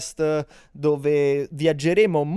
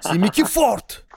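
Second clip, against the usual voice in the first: higher Neapolitan dialect shout, "Simmi più forte" slow; neapolitan street slang; 6 semitones higher, 3 dB louder than usual. Pretend. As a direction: Neapolitan street guy calling out, "più" hit high. Repeat, higher and louder.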